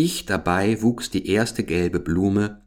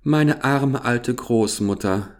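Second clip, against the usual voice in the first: sighing; 4 semitones higher, slower than usual. Acted. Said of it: "seufzte Gerda".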